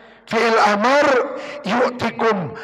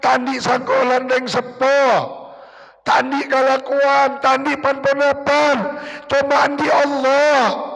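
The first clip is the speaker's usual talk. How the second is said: tearful pleading prayer; 3 semitones higher than usual. Pretend. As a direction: beg God as if about to weep. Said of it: "Sambil nangis ka pangeran". (doa memelas sambil menangis)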